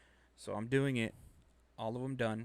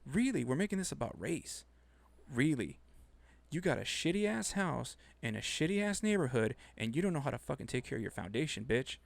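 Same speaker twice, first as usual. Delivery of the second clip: retold outrage; 4 semitones higher than usual. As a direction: let rip like you're telling her off again. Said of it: "It's like".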